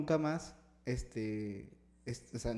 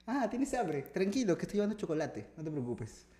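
imitated reassuring mother; 3 semitones higher, 6 dB quieter than usual. Mum telling her son not to worry, softly reassuring. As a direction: play mum soothing a hungry child, softly.

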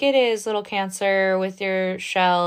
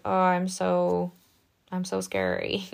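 mock scary crab. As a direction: puff up like a tiny crab playing tough. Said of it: "being like".

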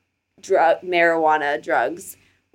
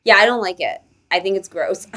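usual speaking voice

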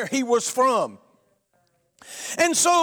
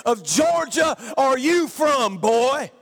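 drill sergeant; slower than usual. Retold or imitated. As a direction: yell it like a boot camp sergeant at a recruit. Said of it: "the drill sergeant said".

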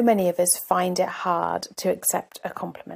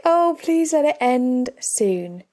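slow, higher-pitched mock plea; mortified pleading; 5 semitones higher, 4 dB louder, slower than usual. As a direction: beg for it to stop, drawn out, as retold. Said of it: "was mortified on the inside".

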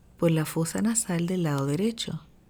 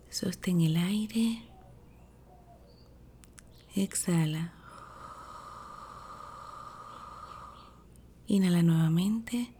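sleep story narrator; 3 dB quieter than usual. Acted. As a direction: ease them into calm breathing. Leads a breathing meditation.

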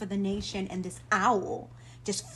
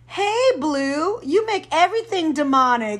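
the Father; 5 semitones higher, 10 dB louder than usual. Retold or imitated. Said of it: "the father just showed up and say".

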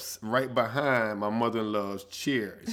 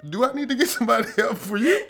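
concerned lady; 12 semitones higher than usual. Retold or imitated. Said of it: "the lady who fell to be like".

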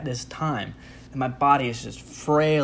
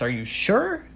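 much higher, sing-song pleading receptionist; mock desk lady. Receptionist begging the leaving patient, in a high mock voice. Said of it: "She says".

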